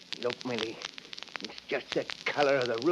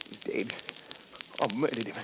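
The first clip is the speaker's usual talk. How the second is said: stunned horror; 6 semitones lower, 8 dB quieter than usual. Acted. Horror after the stabbing.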